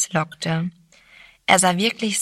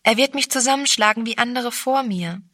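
frightened; 5 semitones higher, faster than usual. Acted. Girl fears the man.

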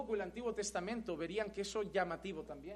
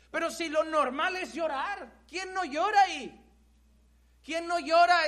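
indignant grieving mother; 5 semitones higher, 5 dB louder than usual. Acted. Grieving mother voiced by preacher.

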